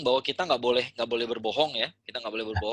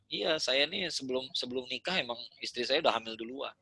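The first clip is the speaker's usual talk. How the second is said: shameless confession; 6 dB quieter than usual. Retold or imitated. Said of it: "dengan nggak malu-malunya cerita".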